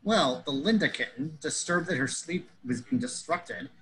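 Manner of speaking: ordinary talk, nothing marked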